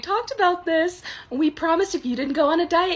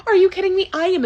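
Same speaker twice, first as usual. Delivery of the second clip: louder, higher disbelief; outraged; 6 semitones higher, 4 dB louder, faster than usual. Acted. Karen snapping at the waiter over gluten, higher and louder. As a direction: snap it at the waiter.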